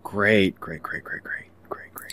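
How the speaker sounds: rapid repeated whisper, very soft; whispered aside. Acted. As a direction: whisper it under your breath. Player muttering an aside while waiting.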